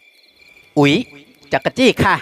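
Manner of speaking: a light startled little yelp, then giggly protest; mock shocked squeal at being tickled; ticklish exclamation. Hill girl squeals as the general strokes her feet, startled. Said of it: "ธิดาชาวเขาอุทาน".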